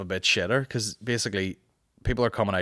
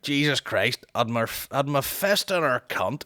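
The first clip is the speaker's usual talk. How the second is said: Jim Jeffries style; 4 semitones higher, slower than usual. Retold or imitated. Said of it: "his style".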